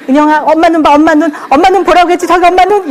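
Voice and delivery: put-on half-laughing nag to make the kid look; insistent mom. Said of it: "이러고 있느라고 진 다 빼세요".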